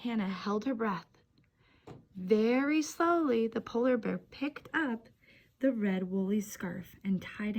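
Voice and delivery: put-on gentle read-aloud for young children; storybook reading. A narrator's reading. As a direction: read it like story time on the rug.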